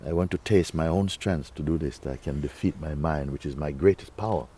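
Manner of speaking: softly spoken gratitude; thankful, happy. Acted. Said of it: "you feel, you know".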